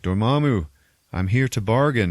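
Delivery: lightly declaimed heroic challenge; Doctor Strange. Retold or imitated. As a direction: announce yourself to a giant foe. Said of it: "and he's like".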